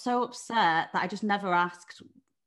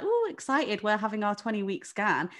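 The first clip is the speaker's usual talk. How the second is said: mock excited couple; 3 semitones higher, 4 dB louder than usual. Storyteller imitating couples at the hospital, lightly gushing. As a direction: mimic a smug happy couple.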